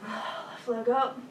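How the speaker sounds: strained and slow; grunting. Real, not acted. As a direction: push it out with effort. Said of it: "Don't mind my grunting and groaning".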